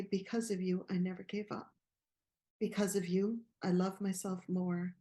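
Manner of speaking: reciting her speech quote. Real, not acted. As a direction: deliver the quote like a speech, each line weighed. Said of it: "I'm going to let you do the quote".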